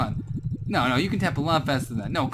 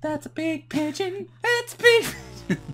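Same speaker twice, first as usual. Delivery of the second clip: silly voice; 13 semitones higher than usual. Pretend. Repeating friend in silly voice.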